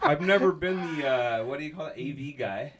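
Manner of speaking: talking with a phone pressed to the mouth; phone held to mouth. Real, not acted. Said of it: "got a phone stuck up here".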